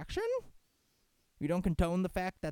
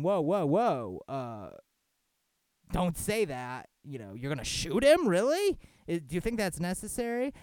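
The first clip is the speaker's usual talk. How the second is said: louder, with a high disbelieving "Really?"; alarmed pleading; 4 semitones higher, 6 dB louder than usual. Retold or imitated. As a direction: urge the cop to calm down. Bystander pleading with the cop.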